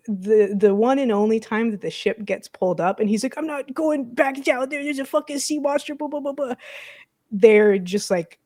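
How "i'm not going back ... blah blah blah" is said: higher-pitched retold protest; mock panicked complaint, trailing into filler; panicked refusal. Retelling a character's panicked refusal.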